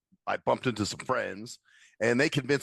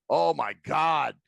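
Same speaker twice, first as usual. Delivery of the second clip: slow, drawn-out disbelief; retold exasperation; 3 dB louder, much slower than usual. Lost man retelling useless bartender directions, exasperated. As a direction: stretch it out, fed up, as in a story.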